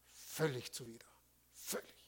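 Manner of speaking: soft whispered "völlig zuwider"; hushed aside to the congregation. Real, not acted. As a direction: drop to a hush for the point. Preacher drops voice for emphasis.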